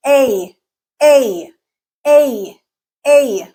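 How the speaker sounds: A gliding from eh up to ee; diphthong demo. Shown as a demonstration. Teacher modelling the A diphthong for learners. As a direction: stretch each A so the tongue slides up. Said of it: "your tongue is moving from A to E".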